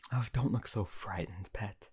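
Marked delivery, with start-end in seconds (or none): 1.5-1.9 whispered endearment. Acted.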